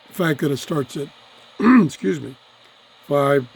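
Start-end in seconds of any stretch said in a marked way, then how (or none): 1.6-3.5 hoarse, throat-clearing voice; rough throat, losing voice. Real, not acted. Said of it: "I'm losing my voice".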